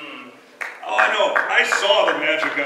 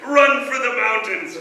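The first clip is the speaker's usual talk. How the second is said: mock panicked shout; 5 semitones higher, slower than usual. Mock panic at head tilt.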